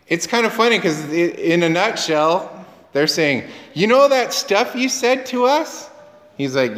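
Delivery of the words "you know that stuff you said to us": excited disciples. Retold or imitated. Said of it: "how excited they were about this".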